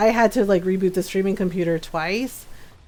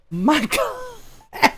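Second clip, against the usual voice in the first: laughing groan; 5 semitones higher than usual. Retold or imitated. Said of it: "I was like".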